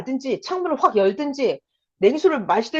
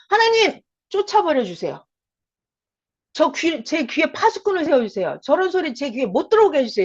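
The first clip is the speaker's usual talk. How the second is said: pleading prayer; 3 semitones higher than usual. Shown as a demonstration. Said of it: "이렇게".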